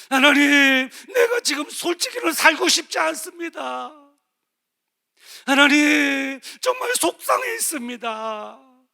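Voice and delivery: loud, high, slow pleading prayer; desperate cry to God. Shown as a demonstration. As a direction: shout your heart out to God. Model prayer, cried out to God. (하나님께 울부짖는 큰 기도)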